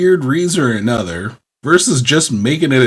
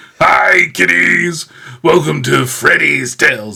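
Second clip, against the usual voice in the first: rough, creaky horror-host voice; 4 semitones higher than usual. Imagining a horror villain hosting a kids' TV show: Freddy Krueger voice. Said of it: "we got Freddy Krueger hosting a T V show".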